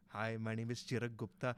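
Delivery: put-on lightly performed Indian accent. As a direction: introduce yourself in a mild Indian accent. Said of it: "do a little bit of an accent".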